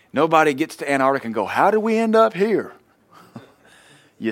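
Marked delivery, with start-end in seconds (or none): 1.4-2.7 mock bewilderment. Mock lost sailor quote.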